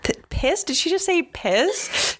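high, incredulous gasp of a question; mock-scandalized American hearing a rude word; shocked listeners. Host voicing shocked listeners, high and incredulous. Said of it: "American listeners listening to this are saying".

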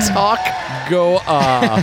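mock imitation. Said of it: "No, no, I talk, you".

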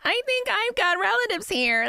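put-on very high, slow American tourist accent; exaggerated American accent, drawn out; mock American. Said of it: "that real cliche of Americans go".

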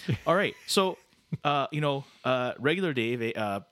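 lightly voiced bumbling Canadian host; folksy, halting game show patter; Canada Dave, stammering host.

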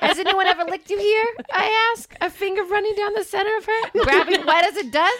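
high, hammed-up Bronx accent; comically bad Bronx accent on the edge of laughter. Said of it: "a Bronx accent".

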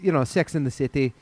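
light, tentative Scottish accent; Scottish accent attempt. Shown as a demonstration. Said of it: "Scottish right now".

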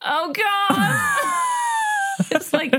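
squeals of laughter over her words; laughing. Real, not acted. Laughing at friend's eyes.

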